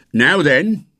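put-on fierce boatman hailing a boy. A narrator's reading. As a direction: call out sharply to catch a trespasser. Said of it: "his fierce voice".

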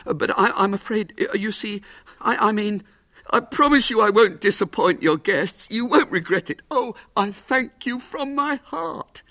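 lightly voiced hopeful showman; eager little showman. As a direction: plead for the booking. Little man stammering thanks.

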